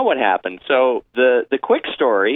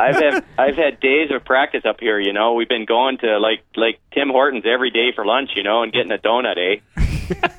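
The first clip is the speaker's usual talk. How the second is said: mock Canadian accent. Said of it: "That's actually pretty good".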